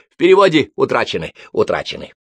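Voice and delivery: mildly mournful, loud then sinking; a touch of sorrowful regret; sad. A narrator's reading. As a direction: lament it, dropping away on the repeat. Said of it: "грустно сказал Толмаш второй".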